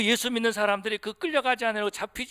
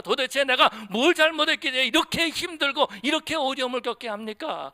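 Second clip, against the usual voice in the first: higher-pitched string of indignant why-me questions; complaining to God; 6 semitones higher than usual. Retold or imitated. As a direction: press God with mounting grievance. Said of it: "라고 하면서 불평할 때가 있다". (높은 음으로 따지듯 불평하는 기도)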